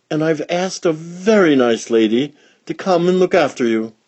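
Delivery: high, bright motherly voice; Mother Pig. Acted. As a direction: lift the pitch for the cheerful mother pig.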